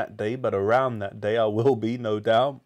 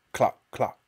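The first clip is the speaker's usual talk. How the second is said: hen clucking. A narrator's reading. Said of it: "went cluck".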